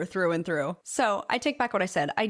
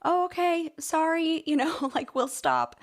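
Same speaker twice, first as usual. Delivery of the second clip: polite firefighters; 8 semitones higher, slower than usual. Retold or imitated. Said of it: "They were like".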